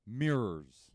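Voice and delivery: loud drawn-out mirrors; booming mirrors. Acted. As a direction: boom the word out. Mirrors repeated back and forth.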